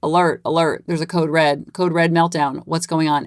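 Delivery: brain alarm voice. Retold or imitated. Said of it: "My brain's going".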